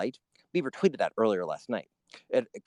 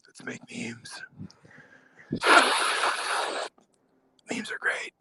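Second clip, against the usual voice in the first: breathy whisper, like a secret plan; Carpe Diem impression. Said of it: "Here's my impression of Carpe Diem".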